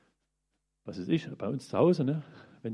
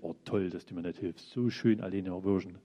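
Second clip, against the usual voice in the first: sarcastic; 4 semitones lower than usual. Retold or imitated. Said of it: "Da ist man so richtig freudig".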